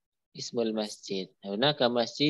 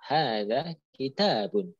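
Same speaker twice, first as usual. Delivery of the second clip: kitabun with the stress on ta, ki-TA-bun; slower than usual. Shown as a demonstration. Teacher repeats kitabun slowly, stressing ta. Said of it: "di taknya ya".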